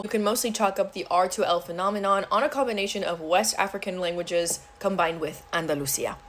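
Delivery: ordinary delivery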